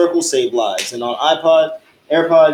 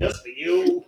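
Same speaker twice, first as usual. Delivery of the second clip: mocking voice pitched way up; squeaky high voice; 13 semitones higher, 5 dB quieter, slower than usual. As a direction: squeak it like a cartoon. Mocking Gaara's line.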